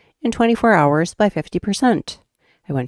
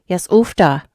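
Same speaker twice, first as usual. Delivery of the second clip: put-on Minnesota accent. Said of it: "Up here in Minnesota with our ooftas".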